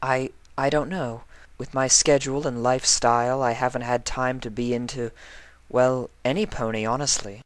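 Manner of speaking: flustered high mare voice; stammering Octavia. Acted.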